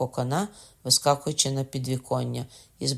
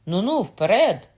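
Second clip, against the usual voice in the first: excited urging; 6 semitones higher, 7 dB louder than usual. A narrator's reading. Urging on the attack.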